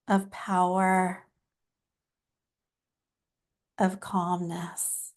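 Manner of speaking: gently paced, with long pauses between phrases; guided breathing meditation. Acted. Host guiding listeners before channeling, calm guided meditation. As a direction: ease them into calm, phrase by phrase.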